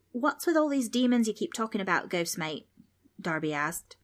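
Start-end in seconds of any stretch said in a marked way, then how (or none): 0.1-2.7 put-on higher, cheeky Australian boy; a lightly voiced kid from down under; curious young Australian; cheeky Aussie kid. Aussie kid Darby questions ghost.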